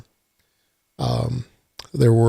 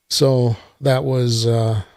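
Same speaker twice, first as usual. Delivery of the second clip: sarcastic. Real, not acted. Host recapping an evening lost to a factory reset, mildly sarcastic.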